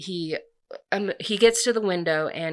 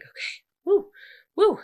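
high-pitched playful woo; mock-flustered, pitch leaping up; flustered whoop; 14 semitones higher, 6 dB louder than usual. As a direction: whoop as if things are heating up. Acting reaction to sexual tension.

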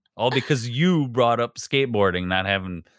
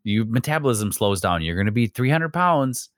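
mom voice. Retold or imitated. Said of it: "And I'm gonna do my mom voice".

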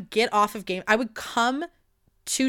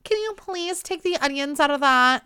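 put-on prissy white girl; 4 semitones higher than usual. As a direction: ask politely like a fussy, entitled diner. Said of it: "like a prissy fucking white bitch who's like".

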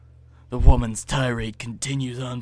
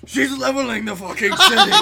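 exclaiming; 11 semitones higher, 8 dB louder than usual. Acted. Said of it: "I comment quietly".

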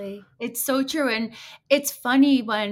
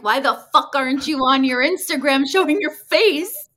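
raised, exasperated mock telling-off; retold yelling; 4 semitones higher, 6 dB louder than usual. Imitating own yelling at brand owners, exasperated and raised. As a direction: scold them with mild mock outrage. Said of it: "like, yelling at people that are brand owners".

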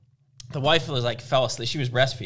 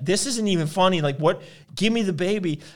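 higher-pitched retold protest; freaking-out mother; 5 semitones higher than usual. Wife begging husband for the baby, mildly freaking out. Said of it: "she's freaking out".

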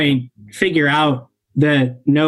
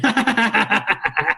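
thugs laughing; 6 semitones higher than usual. Acted. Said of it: "And they both start laughing".

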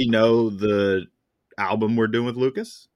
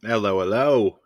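put-on half-hearted British accent greeting; mock British. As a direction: try a quick British hello. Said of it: "Are we British now?".

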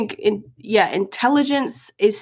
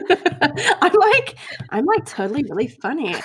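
put-on jokey, higher-pitched American accent; playful put-on American twang; 5 semitones higher than usual. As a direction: boast in a mock American voice. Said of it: "or an American accent".

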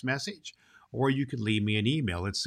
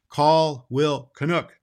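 a louder, slow summoning call; 6 semitones higher, 8 dB louder, slower than usual. Acted. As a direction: call the servant in from across the hall. Prince summons a servant.

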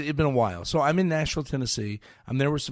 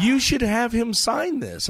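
higher, louder, slow urging; pushy cashier; 10 semitones higher, 6 dB louder than usual. Retold or imitated. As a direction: lean in and insist. Cashier urges autograph.

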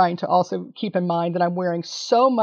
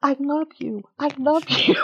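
higher, gushing I love you, pointing at her; gushing fan declaration; 5 semitones higher than usual. Retold or imitated. Winner to Nicole Byer in the front row, higher and gushing. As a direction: call out your love like a starstruck fan.

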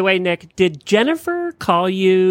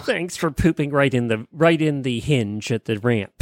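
sarcastic thanks; 4 semitones lower, 4 dB quieter than usual. Retold or imitated. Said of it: "It's like".

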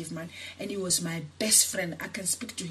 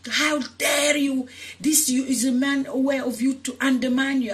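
furious retold outburst; 5 semitones higher, 5 dB louder than usual. To her mother who threatened to cut again, furious shout. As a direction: go ballistic at your mother, voice way up. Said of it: "And I went ballistic".

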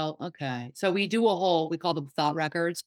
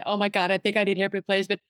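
panicky rush; faster than usual. Retold or imitated. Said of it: "I'm catastrophizing right in front of her".

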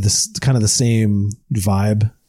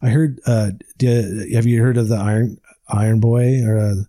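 stumbling over the words; halting, repeating the same words; stammering. Real, not acted. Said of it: "Sorry, I'm stammering".

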